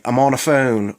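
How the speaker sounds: "on a phone", THE reduced to "a"; Baltimore slur. Shown as a demonstration. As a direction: shrink "the" to a bare "uh" before phone. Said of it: "could also translate to phrases like".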